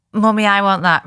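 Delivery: a hint of a whiny two-year-old; imitating toddler. Toddler demanding a dress from mum, mock whine.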